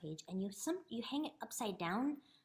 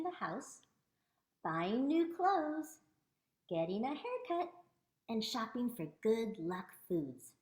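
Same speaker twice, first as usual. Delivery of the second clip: measured, clearly phrased picture-book reading; read-aloud. Acted. Teacher reading a book about Chinese New Year aloud, read-aloud. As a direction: read it out clearly, lingering on list items.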